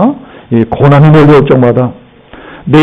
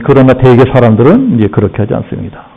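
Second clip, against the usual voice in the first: ordinary talk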